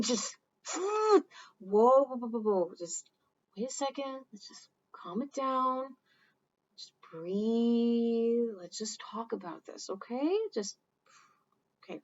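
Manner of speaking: gentle calming voice. Acted. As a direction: talk a friend down gently. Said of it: "the one that's responding".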